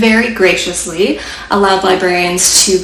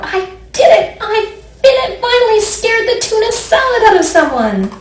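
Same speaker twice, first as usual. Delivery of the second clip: much higher, fast triumphant cheer; gleeful monster; 13 semitones higher than usual. Acted. Monster Leonardo celebrating scaring the boy. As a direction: crow like a monster who won.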